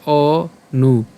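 "অ নু" slowly, opening on a pure vowel; vowel-like pronunciation. Shown as a demonstration. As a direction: split "অ নু" into two slow syllables. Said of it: "স্বরের মতো যদি উচ্চারণ করি". ("অ নু" ধীরে, স্বরের মতো অ)

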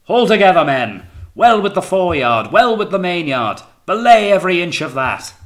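high, loud deck orders; shouted commands. A narrator's reading. Captain directing the hands at the braces, shouting. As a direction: call each order across a windy ship.

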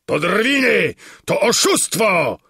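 high, loud cry of outrage; indignant shout. A narrator's reading. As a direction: shout it in indignation, fist-waving. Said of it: "krzyczał, wymachując pięścią".

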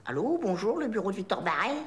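put-on trying on a posh Paris accent; careful go at sounding sixteenth-arrondissement Parisian; attempted chic accent. Trainee repeating the greeting for the boss, attempted chic Parisian accent. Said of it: "Seizième un peu".

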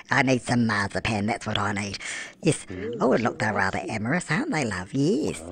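put-on a chatty old granny gushing over her Sims game; doddery granny cooing "love" at everything; Nana Beryl. Old granny narrating her game to the viewers, doting and tipsy. Persona voice held throughout.

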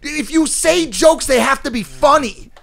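loud, high, laughing protest; laughing outburst. Real, not acted. Mocking a friend's bad joke, laughing and loud.

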